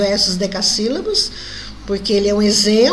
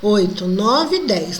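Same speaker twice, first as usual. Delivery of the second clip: counting poetic syllables; 3 semitones lower, much slower than usual. Shown as a demonstration. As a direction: tick off each syllable one by one. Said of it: "ó".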